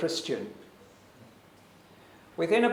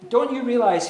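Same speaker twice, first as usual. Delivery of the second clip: irritated Pilate; 6 semitones higher, 7 dB louder than usual. Acted.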